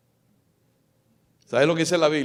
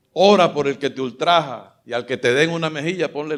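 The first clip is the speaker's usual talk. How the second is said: commandments proclaimed with punched openings; forceful recital, rising on each new heading; emphatic preaching; 3 dB louder than usual. Acted. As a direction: declaim each commandment to a congregation.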